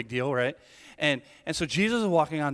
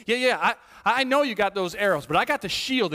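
defiant retort; 5 semitones higher, 6 dB louder than usual. Acted. Believer answering the arrows defiantly.

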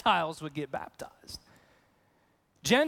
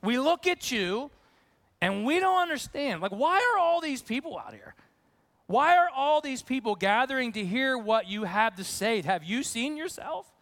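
bewildered; 4 semitones higher than usual. Retold or imitated. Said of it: "it almost starts out with".

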